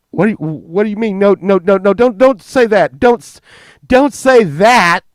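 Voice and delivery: high, loud frantic pleading; hammed-up panicked no; panicked denial. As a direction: beg him frantically to stop. Mom panicking at Steve.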